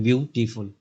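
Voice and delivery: "ब्यूटीफुल" in three separate beats, ब्यू, टी, फुल; broken into syllables. Shown as a demonstration. Teacher showing three syllables to students, "ब्यूटीफुल" split up. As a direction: say "ब्यूटीफुल" with small gaps between its three syllables. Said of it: "ऐसे जो तोड़ते हो ना".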